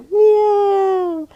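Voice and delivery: high meow through a laugh; laughing cat meow. Shown as a demonstration. Teacher meowing playfully with a child, laughing. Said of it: "Let me hear it".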